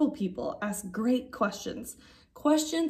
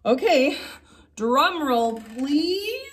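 big announcement; 3 semitones higher, 4 dB louder, slower than usual. Acted.

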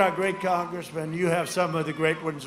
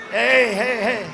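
loud, raised-pitch imitation of an agitated heckled candidate; agitated mock shout; 4 semitones higher, 6 dB louder, slower than usual. Rally speaker mocks rival hushing noisy supporters, agitated shout. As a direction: mimic him angrily shushing the crowd. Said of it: "No, he's very agitated".

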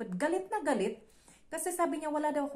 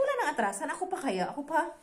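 defiant challenge; 4 semitones higher, 5 dB louder than usual. Retold or imitated. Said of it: "sabi ko".

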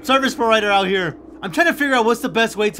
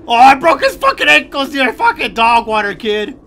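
louder, higher, cocky and laughing; gloating laugh; 4 semitones higher, 6 dB louder than usual. Real, not acted. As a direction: taunt the beaten monster. Escaped the monster, gloating.

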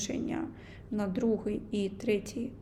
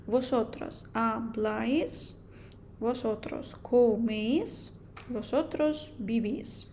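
very slow, careful Spanish forms; teacher modelling the vosotros endings slowly; slow model reading; slower than usual. Shown as a demonstration. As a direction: lay each form out slowly for learners. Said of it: "буде незайвим знати цю форму".

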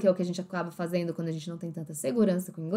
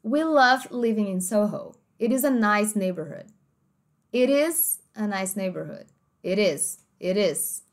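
American flapped T; slower than usual. Shown as a demonstration. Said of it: "no inglês americano seria mais ou menos assim".

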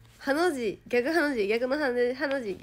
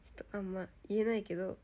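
ordinary talk

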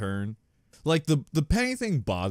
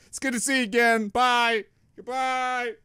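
higher, quick throwaway goodbye; a light, higher parody voice; mock breezy farewell; 11 semitones higher than usual. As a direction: hurry through it lightly. Mocking a brief farewell.

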